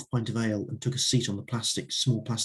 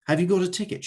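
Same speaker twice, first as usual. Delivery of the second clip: put-on thick Eastern European accent, pitched higher; 7 semitones higher, faster than usual. A narrator's reading. Volunteer asking for his ticket, Eastern European accent. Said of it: "Eastern European accent".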